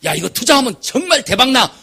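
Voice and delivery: a touch of a slick swindler; con man's pitch. Retold or imitated. Preacher imitates a swindler pitching an investment, lightly acted. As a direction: sell it like a too-good deal. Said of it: "이런 사람은 조심해야 돼".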